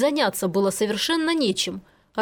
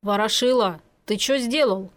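usual speaking voice

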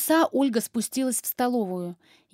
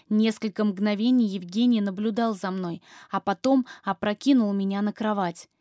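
plain reading voice

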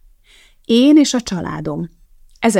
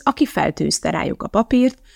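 ordinary delivery, nothing marked

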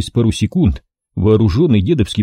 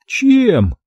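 high needling question; high squeaky man sneering; needling squeak; 12 semitones higher than usual. A narrator's reading. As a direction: ask it snidely. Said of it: "въедливо спросил Кастрат".

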